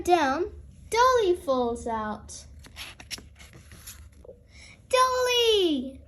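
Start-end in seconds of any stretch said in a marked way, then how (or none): 4.9-6.0 high, worried call of the name; alarmed cry. Acted. Peppa sees Dolly fall out: high alarmed cry. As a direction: cry out as the doll falls. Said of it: "cries Peppa".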